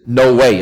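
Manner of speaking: firm, emphatic "no way.". Acted. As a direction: land hard on "no way.". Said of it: "It's a very emphatic no".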